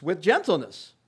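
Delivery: "With gentleness" fronted and weighted; stress on with gentleness. Shown as a demonstration. Preacher stressing "With gentleness" to the congregation. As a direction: land on "With gentleness" as the emphasis. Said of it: "so there's an emphasis".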